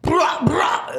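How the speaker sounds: put-on high, loud Italian-accented Scarface; hammed-up mock gangster. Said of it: "so say it".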